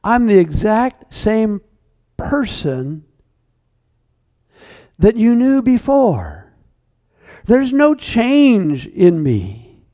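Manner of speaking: calm a friend gently; reassuring. Acted. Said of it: "And then Jesus reassures John".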